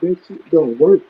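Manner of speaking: muffled phone line. Real, not acted. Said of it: "It's still muffled".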